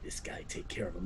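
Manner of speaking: a lazy boss handing off the job; goblin boss voice. Acted. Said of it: "And then he's like".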